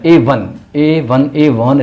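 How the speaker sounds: Avon said ay-von, drawn out slowly; ए वन, stretched slowly; brand name pronounced. Shown as a demonstration. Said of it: "इसको नहीं पढ़ना".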